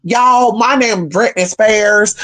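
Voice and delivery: put-on a light country accent drawn out a little slow; hint of a Southern country accent introducing herself; mock country accent. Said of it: "she has a country accent".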